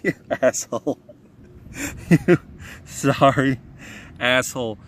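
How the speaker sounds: loud, furious cursing; angry cursing. Real, not acted. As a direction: swear at it, really angry. Cursing the wasp that stung him.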